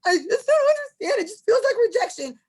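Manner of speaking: high, wailing imitation of a sobbing girl; hammed-up crying; mock crying girl. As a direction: whimper it like a weepy reality star. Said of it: "she's like".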